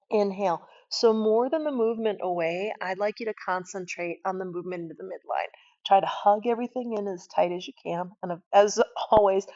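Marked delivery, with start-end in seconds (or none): none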